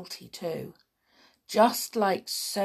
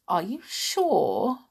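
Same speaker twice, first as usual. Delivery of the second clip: tearful; 4 dB louder, slower than usual. Acted. Boy worried for porter.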